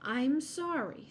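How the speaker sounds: mildly firm apology, drawn out. A narrator's reading. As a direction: turn the caller down firmly. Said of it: "said Missus Acorn firmly".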